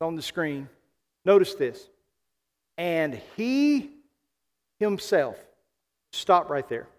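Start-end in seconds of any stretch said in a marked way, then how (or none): 2.8-5.4 deliberate reading with a break before "himself"; slow reading. Real, not acted. Pastor reading scripture to congregation from the screen, slow and deliberate. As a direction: read it out piece by piece, pausing. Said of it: "I want us to read it slowly".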